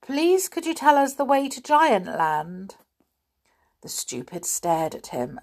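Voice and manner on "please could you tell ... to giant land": politely; polite child asking a stranger. A narrator's reading. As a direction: ask nicely.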